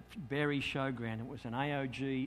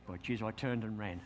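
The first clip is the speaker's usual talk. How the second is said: laughing; 6 semitones lower, 5 dB quieter than usual. Real, not acted.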